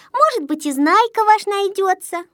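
high-pitched, hopeful comforting; утешающе. A narrator's reading. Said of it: "утешали его малышки". (утешая, высоким голоском)

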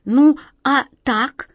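a slow, plaintive little question. A narrator's reading. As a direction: plead for approval, slowly. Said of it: "жалобно спросил".

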